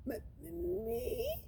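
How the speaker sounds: high, halting squeak; frightened squeak. Acted. Luke squeaks fearfully at the teacher. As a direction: stammer it out in a small scared squeak. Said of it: "Luke squeaked".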